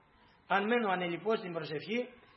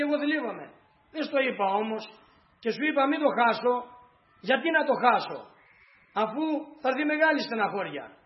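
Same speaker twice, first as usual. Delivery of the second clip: grieving lament; 4 semitones higher than usual. Acted.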